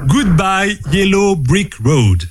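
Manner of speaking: slow English title in a French accent; measured French-accented English. Real, not acted. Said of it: "entraîne ton accent anglais aussi".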